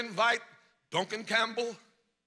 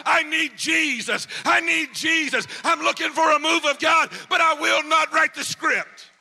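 retold crying out; 4 semitones higher, 9 dB louder than usual. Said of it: "began to scream out".

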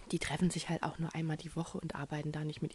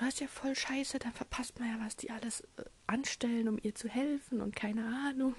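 high, outraged friend voice with whispered bits; indignant friend; 6 semitones higher than usual. Retold or imitated. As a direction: quote the friend's outrage, pitched up. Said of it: "da hat meine Freundin auch gesagt".

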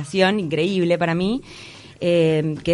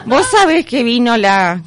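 put-on slow, laughing old lady voice; Mamá Cora voice; 3 semitones higher, 5 dB louder than usual. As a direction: drawl it like the grandma character. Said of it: "imitar a Mamá Cora".

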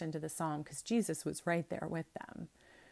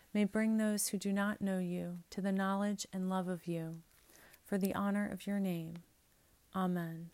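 measured, solemn liturgical prayer; prayer reading. Acted. Priest leading the congregation in collect prayers, solemn. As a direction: pray it aloud in steady cadence.

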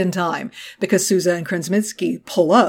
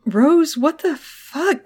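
bewildered hiss; 8 semitones higher, slower than usual. Retold or imitated. Arrives to find colleagues crying.

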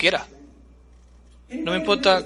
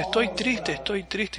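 higher, much softer sad voice; mock the gloomy hotel clerk; mopey sad clerk; 3 semitones higher, 6 dB quieter, slower than usual. Hotel clerk tells the excited guest he is sad, softly. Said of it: "la persona me dice".

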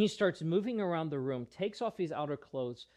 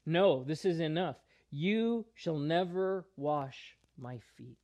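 Peter's objection pushed out louder; firm, raised refusal with a slow close; louder protest. Retold or imitated. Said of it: "Peter is the one who speaks up".

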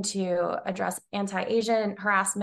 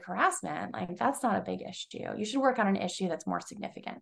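softer, mock dismissal; dismissive; 5 dB quieter than usual. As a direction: brush it off as minor, softly. Retelling past dismissal of harassment.

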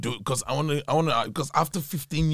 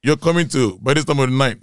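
loud, high, long WHERE, then a pause; mother's stern demand; 5 semitones higher, 9 dB louder than usual. Retold or imitated. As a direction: imitate a mother booming out a challenge. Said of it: "She goes".

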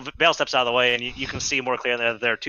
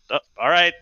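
backing down; 4 semitones higher than usual. Acted.

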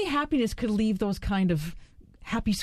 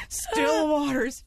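mock booming; 3 semitones higher, slower than usual. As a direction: boom out "Still waters" like a grand title. Co-host mocking the phrase.

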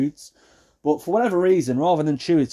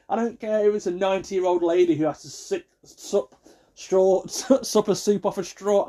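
high-pitched, worked-up ranting; exasperated rant; 5 semitones higher than usual. Real, not acted. Ranting about noisy eaters, exasperated. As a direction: rail in raised pitch at the annoyance.

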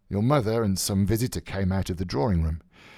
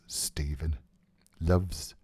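softer, whispered name; 4 semitones lower, 4 dB quieter, slower than usual. Acted. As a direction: breathe the name like a secret. Unvoiced, whispered.

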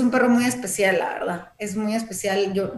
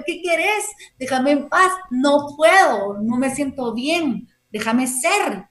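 retold arguing; 3 semitones higher, slower than usual. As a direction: replay a quarrel with the dog, slowing into pleading. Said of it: "me peleé con él".

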